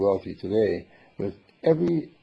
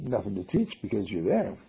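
loving; 5 dB quieter than usual. Shown as a demonstration. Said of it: "We only talk lovingly".

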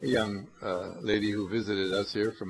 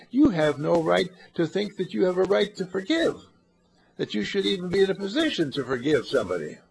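raised, emphatic preaching; forceful rebuke; 3 semitones higher, 4 dB louder than usual. Real, not acted. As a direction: hammer home that nobody may forgive. Preacher rebukes forgiving as arrogance.

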